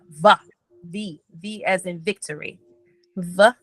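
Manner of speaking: "V" with a long buzzing v sound; over enunciating. Shown as a demonstration. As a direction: press the lips and buzz out "V". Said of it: "remember to pronounce the V".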